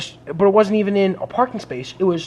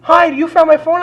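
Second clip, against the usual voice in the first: high, slow, louder caller voice; imitating the caller; 11 semitones higher, 6 dB louder, slower than usual. The owner calling her lost phone, in a high, slow voice. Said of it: "And they go".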